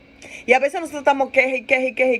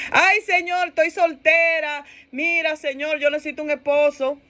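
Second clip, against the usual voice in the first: mock whining plea; 4 semitones higher than usual. Single woman begging the Lord for a husband, mock whining. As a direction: plead like a hammed-up complainer. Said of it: "Entonces comienza otra lloradera".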